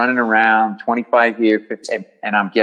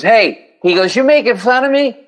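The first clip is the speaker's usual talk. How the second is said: put-on angry bleeding drunk; 11 semitones higher than usual. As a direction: snap back at the comic like he insulted you. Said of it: "he turns to me".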